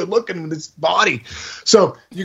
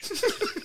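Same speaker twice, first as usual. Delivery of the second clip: high squealing laugh; 12 dB quieter than usual. Real, not acted. Laughs at the activation stage.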